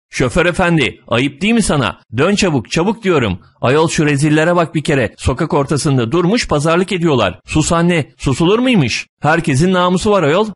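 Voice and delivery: high-pitched indignant scolding; hollering old woman. A narrator's reading. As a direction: rail in outrage, without full volume. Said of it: "koca karı bar bar bağırıyor".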